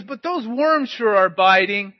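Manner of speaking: loud, slow hollered remark; calling back. Retold or imitated. Fishing boy tells the driver about worms, calling back.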